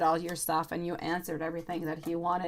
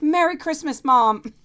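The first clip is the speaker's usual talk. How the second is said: put-on higher, louder child voice insisting on Merry Christmas; son's eager greeting; 7 semitones higher, 8 dB louder, slower than usual. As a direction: belt out the greeting like an excited little boy. Son repeats Merry Christmas.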